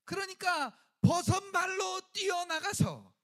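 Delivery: preacher building to the running father; excited rush. A narrator's reading. Father runs out barefoot.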